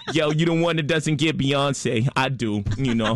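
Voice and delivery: teasing rapper impression; playful imitated rapper brag; impression of a famous rapper. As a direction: needle someone in a mock rapper voice. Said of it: "he has been, every time he sees me".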